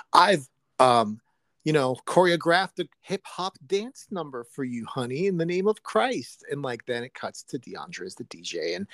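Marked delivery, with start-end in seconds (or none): 0.1-6.4 higher-pitched mock husband's announcement; movie husband. Husband presents his dance to his wife, mock movie husband. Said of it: "unpauses and he says".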